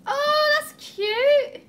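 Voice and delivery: high, loud, drawn-out aww; cooing delight. Real, not acted. Vlogger reacting to a cute present, cooing. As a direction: coo over something adorable.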